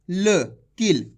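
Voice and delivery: "किल" said short, with no long aa at the end; teacher shows the wrong way, clipped "किल"; wrong short reading. Shown as a demonstration. Teacher shows kids the wrong short reading. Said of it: "किल पढ़ देते हैं".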